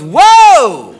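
loud, swooping startled cry; drawn-out mock shock; startled whoa. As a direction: exclaim in mock shock, rising then dropping. Girlfriend's startled reaction, retold.

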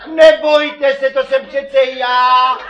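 něžně a pomalu, o něco výš; konejšivě jako zdravotní sestra; gentle. Pretend. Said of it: "Musíte postupovat něžně jako zdravotní sestřenice". (zachránce něžně uklidňuje raněného)

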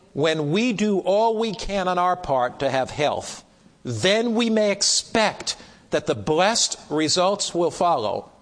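deliberate reading with weighty pauses; slow down on the key phrase; slow, powerful reading. Real, not acted. Preacher reading a precious statement to the class, slowly. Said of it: "I'll read it slowly because it's so powerful".

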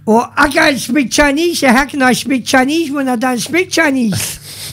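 a slow, lightly put-on vaguely Asian accent, pitched a little up; joking, sliding lightly into a vaguely Asian accent. Teasing his co-host on air in a vaguely Asian accent. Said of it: "What's that accent that you're doing there".

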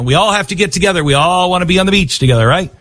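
high, fast, mock-friendly beach vibe; mock hippie cheer. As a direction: parody the everyone-together crowd, quick and high. Mocking the beachgoers' attitude.

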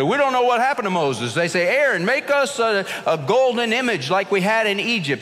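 impatient crowd. Retold or imitated. Preacher voicing the restless Israelites demanding an idol, impatient. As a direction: voice the restless Israelites pushing Aaron.

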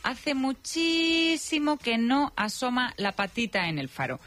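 lively, measured radio script read; radio presenter narration. Real, not acted. Presenter telling listeners the voices are alike, playful radio narration. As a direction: present it with playful, drawn-out emphasis.

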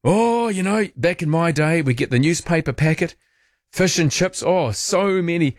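high, wistful mock old-timer; nostalgic reminiscing. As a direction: pitch up and linger like remembering the old days. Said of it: "those childhood memories of".

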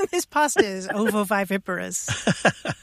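laughing. Real, not acted. Joking use of the word.

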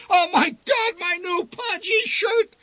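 very high, loud, slowing cry of disgust; high anguished shout; horrified wail. Acted. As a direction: howl in horror at the ruined shirt. Father soaked in vomit mid-ride.

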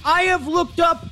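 booming over-the-top football analyst impression; Ron Jaworski impression. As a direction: shout the numbers like a hyped TV analyst impersonation. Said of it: "my Frank Caliendo impression of Ron Jaworski".

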